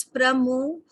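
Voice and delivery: प्रमो drawn out slowly with a faint h sound; प्रमो said slowly, stressing the MO; slow pronunciation demo. Shown as a demonstration. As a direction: model प्रमो slowly for the class. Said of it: "एच का हल्का सा sound".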